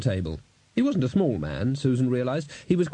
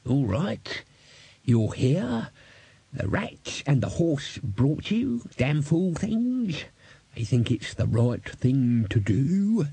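put-on grudging old man; 3 semitones higher, much slower than usual. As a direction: concede it grudgingly.

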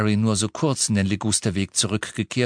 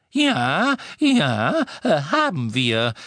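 flustered wizard; 6 semitones higher, slower than usual. A narrator's reading. Dedalus flustered.

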